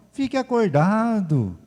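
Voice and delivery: high, slow, drawn-out order; lightly hammed-up calm doctor; mock pastor command. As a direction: deliver it like a deadpan prescription. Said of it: "Me desanimou completamente".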